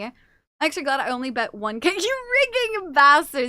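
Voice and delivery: breathless after standing; out of breath. Real, not acted. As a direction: speak a bit winded. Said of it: "You sound out of breath".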